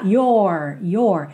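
"Your" with the tongue curled back on the R. Shown as a demonstration. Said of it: "já enrola a língua".

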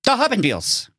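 high, eager owl doctor; excited. A narrator's reading. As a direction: pounce on the insight excitedly.

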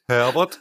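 "Herbert" stretched, "Her" held long; drawn out Herbert. Shown as a demonstration. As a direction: slur "Herbert" like "Herr Ermert". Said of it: "du musst das ein bisschen lang ziehen". ("Herbert" lang gezogen)

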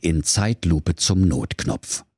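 drawn-out slow-motion reading. Acted. Zeitlupe beschrieben. (Zeitlupe, gedehnt)

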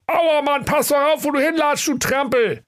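very high, cheeky flower voice; a sassy little flower mocking a snowdrop; crocus voice. Crocus teases the snowdrop in a very high voice. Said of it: "rief der Krokus".

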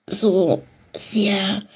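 swallowing a burp; words pressed out around a burp. Real, not acted. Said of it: "oh Gott, Entschuldigung".

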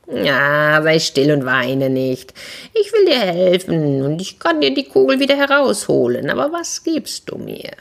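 lightly voiced frog, bargaining; a hint of a sly frog making a deal. Frog answers the princess.

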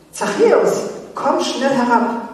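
Jesus calling up into the tree. Acted. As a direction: call him down from the tree. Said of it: "rief Jesus".

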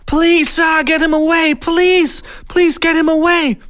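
high, loud panicked begging; screaming in fear. A narrator's reading. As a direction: scream desperately for someone to save you. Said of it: "Er schrie vor Angst". (vor Angst schreiend, flehend)

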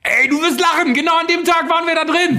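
high, loud thrilled retelling; excited. Real, not acted. Excited gaming story.

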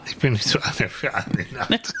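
ordinary talk

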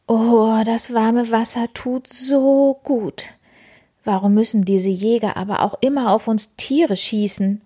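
a soothed piggy sigh into warm water; groaning wild boar. Acted. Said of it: "stöhnte Wildi". (leicht gespieltes Wildschwein, höher, wohlig stöhnend)

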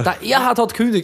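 "Erhard" pushed high with exaggerated stress; playful overstressed "Erhard"; odd comic stress. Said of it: "Die Betonung liegt am R H".

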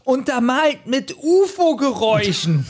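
high, slow, laughing mockery. Real, not acted. Mocking the UFO sound effects to the co-host, laughing high. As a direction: drag it out, amused by the sound effects. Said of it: "mocking the audio effects".

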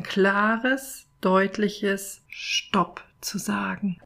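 slow, weighty, with strong stress on Stopp; slow guided affirmation; emphatic meditation. Acted. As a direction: set a clear boundary, slowly.

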